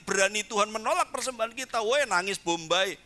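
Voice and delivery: ordinary talk, nothing marked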